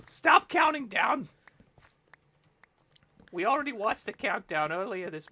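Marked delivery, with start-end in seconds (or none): 0.1-1.3 mock shout. Mock-commanding the co-host.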